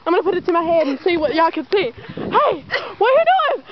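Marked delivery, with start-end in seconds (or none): 1.9-3.6 calling out. Real, not acted. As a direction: shout it across the yard. Calls out while jumping.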